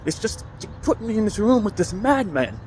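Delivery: high, complaining old lady imitation; elderly lady voice. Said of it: "That's exactly how she was talking".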